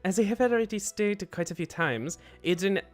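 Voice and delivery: muddled French-Swedish accent. Shown as a demonstration. Reader tries the requested French version, muddled French-Swedish accent. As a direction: attempt French through a bad Swedish accent. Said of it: "you'll do a French version of a drag star's accent".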